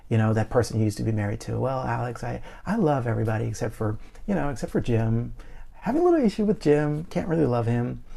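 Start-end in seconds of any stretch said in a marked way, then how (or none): 1.6-8.0 mock excuse. Mimicking a churchgoer's excuse.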